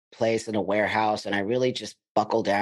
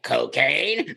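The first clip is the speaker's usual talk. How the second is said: surprised; 3 semitones higher than usual. Retold or imitated. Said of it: "I'm like".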